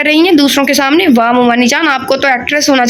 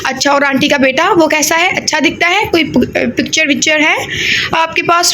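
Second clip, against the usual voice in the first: excited; 3 semitones higher than usual. Acted. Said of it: "Rubab excited होती हुई बोली".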